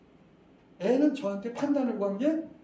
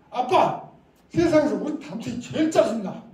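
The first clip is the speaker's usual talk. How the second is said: a daughter's loud, higher angry outburst; 5 semitones higher, 9 dB louder than usual. Retold or imitated. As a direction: fling it out like a fed-up teen. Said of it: "대단히 화가 났어".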